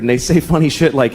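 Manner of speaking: ordinary talk, nothing marked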